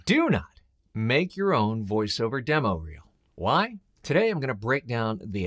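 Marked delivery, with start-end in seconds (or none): 0.1-3.0 "do not" hit firmly, each word weighted; stress on do not. Real, not acted. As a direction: lean hard on "do not" as a warning. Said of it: "and I repeat".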